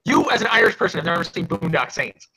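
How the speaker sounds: can't believe an Irish friend missed it; incredulous disbelief. Real, not acted. Shocked friend never saw film.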